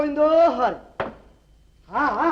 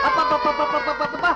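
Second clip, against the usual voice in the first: a shouted string of abbabba; exasperated shout. Acted. Father fed up with the crying kids, shouting. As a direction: blow up at the noisy children.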